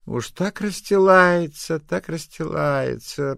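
slow, high, drawn-out sneer; mock her fawning, slowly; mocking old gossip. Neighbour sneering at Agasha's fussing, slow and high. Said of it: "прокомментировала неугомонная бабуся Колпакова".

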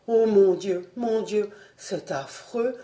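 mournful, even-pitched lamenting; doleful murmur. A narrator's reading. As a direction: moan it in despair, letting it fade. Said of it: "murmurait-il d'une voix dolente".

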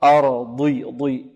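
أرضي with heavy ض darkening the i; emphatic dad with kasra. Shown as a demonstration. Teacher showing elevation and covering, heavy dad before i. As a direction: raise the tongue on ضي, keeping itbaq. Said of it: "فيها صفة الاستعلاء".

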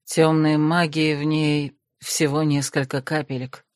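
low, even voice of a reserved man; lightly voiced cool necromancer; calm male necromant. Desmond corrects Krasimirka, coolly low.

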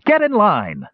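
high, slow scream of an order. A narrator's reading. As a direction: yell it at the ragged line. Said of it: "screamed Perion".

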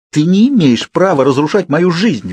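high-pitched angry protest; helpless fury. A narrator's reading. Girl to Edward driving her away, helplessly furious. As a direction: lash out in powerless anger. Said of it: "В бессильной злобе тряслась я".

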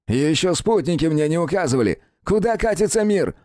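high, haughty outraged cry; indignant prince. Acted. Prince lashing out at his servant, outraged. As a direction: scold like an offended royal.

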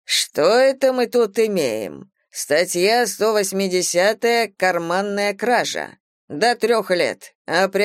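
slow, weighty police captain reading the charge; stern captain. Acted. Police captain slowly reading a pickpocket her charge, stern. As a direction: lay out the article number slowly, like an officer.

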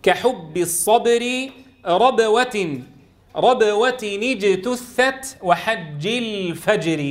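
slow measured recitation, hard voiced ب and ج in ربوة and الفجر; strong voiced letters. Shown as a demonstration. Teacher recites the example verse, slow with firm voiced ب and ج in اجتثت. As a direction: bounce firmly off ب in ربوة and ج in الفجر. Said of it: "احرص على الشدة والجهر".

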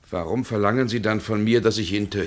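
high, quick, urgent question; rising, hurried objection; agitated. Acted. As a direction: push back, rattled. Protesting the demand to kill.

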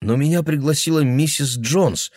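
put-on girl protesting. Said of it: "возразила девушка".

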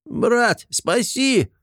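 high, pleading gremlin squeal; plaintive cry. Acted. Gremlin in a cage begging his brother for rescue, high plaintive cry. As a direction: wail for your brother to save you. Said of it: "жалобный крик".

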